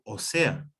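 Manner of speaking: ósea said as "o SE-a"; stress on "se" in ósea. Shown as a demonstration. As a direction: say ósea like the connector o sea, stressing SE. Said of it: "Es diferente decir".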